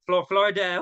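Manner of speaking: "Florida" slipping out in a strange accent; weirdest accent. Real, not acted. Host tripping over "Florida" in the greetings, accidental weird accent. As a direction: stumble into an odd accent on "Florida". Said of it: "that's the weirdest accent".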